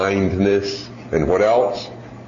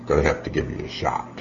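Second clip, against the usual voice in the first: ominous doctor; 8 semitones lower, 6 dB quieter, faster than usual. Retold or imitated. Doctor warning a child patient, mock ominous. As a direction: draw out the dread of the needle.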